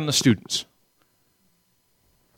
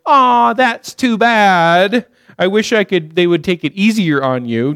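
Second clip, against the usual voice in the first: mock sympathy. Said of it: "my response as a dad is never to say".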